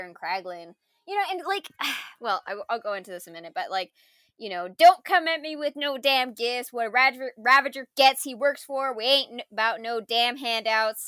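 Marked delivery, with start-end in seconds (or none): 4.7-11.0 attempted Yondu accent. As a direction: try for Yondu's accent and don't quite land it. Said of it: "I can't do his accent".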